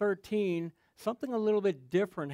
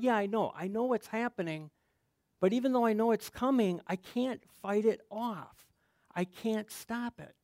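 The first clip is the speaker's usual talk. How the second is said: helpless pleading; 5 semitones higher than usual. Retold or imitated. Answering wife, pleading helplessness.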